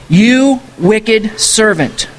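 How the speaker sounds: slow, stern rebuke; stern master. Acted. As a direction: drag out each word like a judge. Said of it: "his master ... said".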